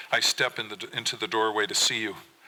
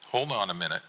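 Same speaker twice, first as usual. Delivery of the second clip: soft voice; faster than usual. Acted. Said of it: "in a soft voice".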